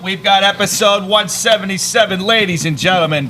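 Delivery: booming ring announcer voice; grand entrance announcement. Acted.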